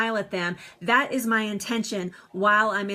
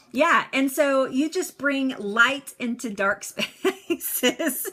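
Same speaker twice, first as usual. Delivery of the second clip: laughing; 3 semitones higher, much slower than usual. Real, not acted. Laughs while answering a viewer.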